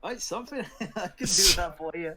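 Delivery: high, loud, laughing halfling barkeep; jolly innkeeper breaking into laughter; cheerful small homely voice. Acted. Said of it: "This is my halfling voice".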